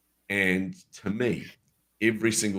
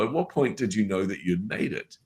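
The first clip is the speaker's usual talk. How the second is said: lightly squeaky retold question; a hint of nervous squeak, imitating yourself; 2 semitones higher than usual. Nervous attendee asking the speaker a question, slightly squeaky voice. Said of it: "with my squeaky kind of voice".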